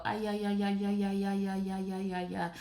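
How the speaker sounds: soft, wobbly ay ay ay; relaxed vibrating moan. Retold or imitated. Massager on shoulders makes her moan softly. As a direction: let the massager shake the sound. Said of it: "It makes you go".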